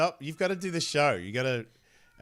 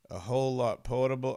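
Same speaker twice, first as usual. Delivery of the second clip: drops the word "more": "a whole lot portable"; flubbed line. Real, not acted. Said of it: "uh, a whole lot more portable".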